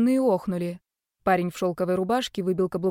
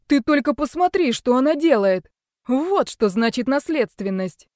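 higher, louder, thrilled; delighted admiration; 5 semitones higher, 6 dB louder than usual. Acted. Doctor marvels at his daughter, higher louder delight. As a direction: burst with pride in her. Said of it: "восхищённо".

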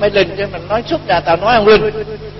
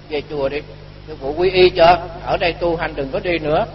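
low, soft retold advice; hushed, kindly counsel; gentle persuasion; 3 semitones lower, 8 dB quieter than usual. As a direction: coax them quietly toward a decision. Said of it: "Tôi mới khuyên nó".

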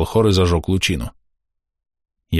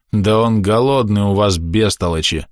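displeased. Acted. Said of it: "недовольно сказал голос".

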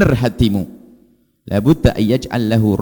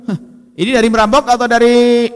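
louder, higher, suspicious demand; suspicious accusation; 10 semitones higher, 6 dB louder than usual. Retold or imitated. Ustadz interrogating the gift giver, loud and suspicious. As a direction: question the giver to his face. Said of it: "wah, kan nggak enak banget".

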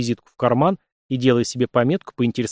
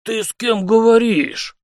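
put-on higher, louder and slow, an old man's indignant demand; flaring up; 10 semitones higher, 3 dB louder, slower than usual. A narrator's reading. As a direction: bristle at the insolence. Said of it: "моментально вспыхнул Алексей Михайлович".

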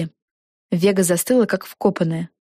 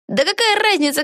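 mild outcry; 13 semitones higher than usual. A narrator's reading. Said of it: "вскричала Пегги".

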